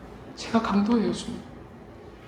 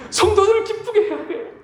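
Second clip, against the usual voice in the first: mocking self; 11 semitones higher than usual. Pastor mocks his anxious self.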